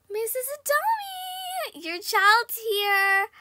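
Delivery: high drawn-out call to the mother; calling Missus Adami to the door, slow; sing-song calling out. Acted. Game player calling the mother to the door, sing-song and slow.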